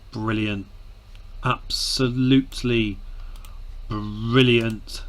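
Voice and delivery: sighed, breathy sarcastic "brilliant". Real, not acted. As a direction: sigh it out, bitterly ironic. Sighing at facing the champions.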